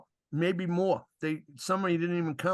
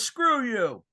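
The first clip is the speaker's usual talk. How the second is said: retold curse; 6 semitones higher, 5 dB louder than usual. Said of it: "He goes".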